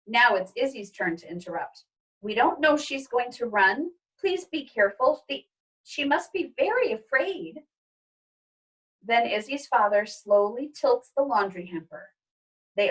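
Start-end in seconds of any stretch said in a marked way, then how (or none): 2.2-7.6 put-on higher worried girl; pleading child. Izzy pleading with father, higher and worried. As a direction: beg them to be gentle.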